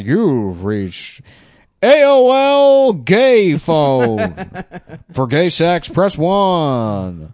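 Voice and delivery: high, loud, slow recorded greeting; automated phone menu voice. Pretend.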